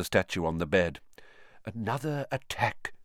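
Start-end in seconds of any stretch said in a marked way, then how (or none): 1.6-2.9 quiet. Acted. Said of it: "said Dumbledore".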